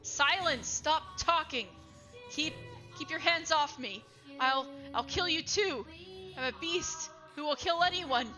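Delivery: cornered man threatens the woman who tries to calm him; frantic threat. Acted. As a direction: warn her off with wild menace.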